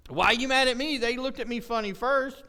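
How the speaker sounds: mock indignant child defending himself; protesting kid. Kid tells parent "they looked at me funny first", protesting.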